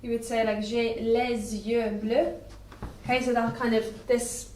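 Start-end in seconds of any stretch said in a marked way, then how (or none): 0.6-2.3 slow "J'ai les yeux bleus" with a Z linking "les" to "yeux"; French liaison. Shown as a demonstration. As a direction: say "les yeux" as "lez-yeux", slowly. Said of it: "like, Z sound in the middle".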